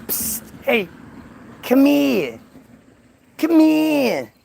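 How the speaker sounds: whispered psst then high come here; hushed then high coaxing snake; sneaky snake. Acted. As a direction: lure her over like a sly snake. Snake luring Eve.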